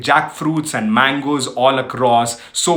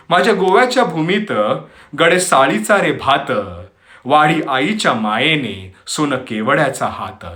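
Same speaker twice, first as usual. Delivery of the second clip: poem recitation; 2 semitones higher, much faster than usual. Acted. Host recites Marathi poem on Goa to listeners, poetic recitation. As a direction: recite in measured phrases, pausing between lines.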